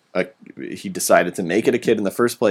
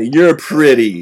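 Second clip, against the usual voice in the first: mock Anakin line; 5 dB louder, much slower than usual. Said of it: "I always wanna say".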